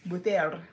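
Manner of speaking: "Butter" said as "buh-THAIR"; "Butter" with a full "-air" ending; over-pronounced ending. Shown as a demonstration. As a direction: exaggerate the end of "Butter" into "air". Repeats the exaggerated butter.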